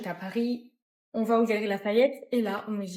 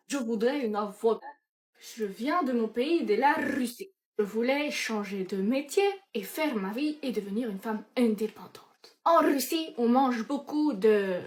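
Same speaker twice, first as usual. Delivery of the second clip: slow, hammed-up Russian accent; attempted Russian accent. Russian newcomer telling her story, hammed-up Russian accent. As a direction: draw out the words in mock Russian accent. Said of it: "j'essaie de faire la russe au bas".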